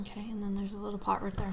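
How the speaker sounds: hushed off-script whisper; whispered aside. Real, not acted. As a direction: whisper a quick cue to your reading partner. Aside during the reading.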